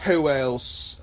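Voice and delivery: put-on British accent. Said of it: "did you just do a British accent?".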